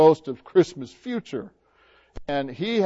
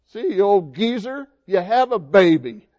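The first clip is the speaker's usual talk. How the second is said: good-natured teasing; 5 semitones higher, 5 dB louder than usual. Acted. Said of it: "she's not being mean about it".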